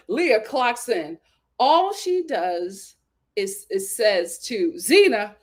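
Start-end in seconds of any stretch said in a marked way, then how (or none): 0.1-1.2 Leah clocks in said slowly with weight; drawn out, savoring the moment; slow, deliberate announcement. Shown as a demonstration. Slow dramatic build to gossip.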